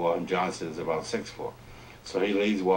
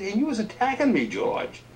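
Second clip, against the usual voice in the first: much higher, louder playful accusation; mock wounded Johnson; 4 dB louder than usual. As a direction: play the injured party. Johnson voiced, mock hurt.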